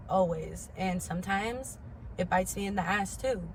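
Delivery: normal talking voice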